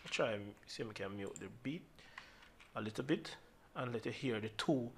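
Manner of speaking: low, very soft working aloud; distracted aside. Real, not acted. Tutor muting the beat before playback, quiet distracted aside. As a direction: talk softly to yourself while busy at the controls.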